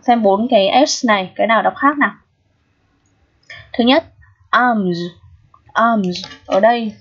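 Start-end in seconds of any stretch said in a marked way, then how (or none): 4.5-6.2 "arms" ending in a voiced z; "arms" said in isolation with a buzzing z ending; pronunciation demo. Shown as a demonstration. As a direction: model "arms" twice, final S as z. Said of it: "nó được phát âm là âm Z".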